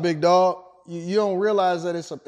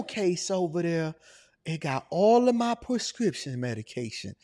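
put-on old man voice.

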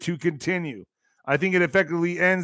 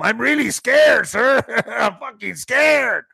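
hammed-up fake fear; 5 semitones higher, slower than usual. Mock migrant overplaying fear.

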